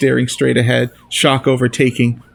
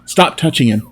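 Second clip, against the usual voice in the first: yelling; 2 semitones higher than usual. Acted. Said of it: "a voice yells at me".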